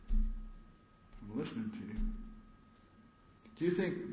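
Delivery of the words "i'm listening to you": slow, drawn-out feigned interest; fake attentive. Shown as a demonstration. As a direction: pretend to listen, slowly. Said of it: "Eye contact".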